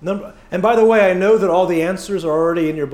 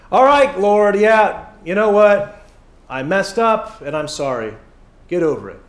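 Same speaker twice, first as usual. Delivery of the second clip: flippant prayer. Retold or imitated. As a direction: toss off an apology to God. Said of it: "with that same attitude".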